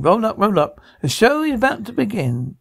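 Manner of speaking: lightly voiced showman, pitch lifting; circus barker. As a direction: announce the show with a touch of fairground patter. Showman announces the show.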